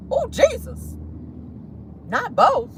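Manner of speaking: clutching pearls, high and hushed; scandalized high gasp. Real, not acted. Scandalized by gossip detail.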